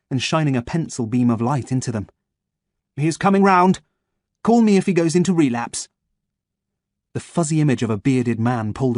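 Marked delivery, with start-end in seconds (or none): 2.9-5.9 doctor's voice. Acted. Bearded doctor speaks over patient.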